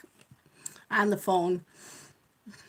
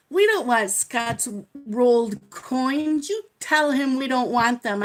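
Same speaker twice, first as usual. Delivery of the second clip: snippy clerk; 3 semitones higher, 5 dB louder than usual. Retold or imitated. Bank clerks refuse husband's coins.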